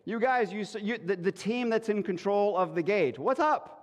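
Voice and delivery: lightly voiced king demanding answers. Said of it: "they're like".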